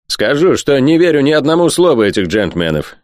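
high, vehement denial; spitting the words. A narrator's reading. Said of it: "почти выплюнул Спенсер". (с негодованием, почти выплёвывая)

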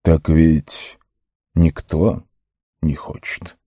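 measured, heartfelt words with pauses. A narrator's reading. The wizard answers the reluctant hobbits, heartfelt. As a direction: say it earnestly, pausing between phrases. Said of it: "проникновенно сказал маг".

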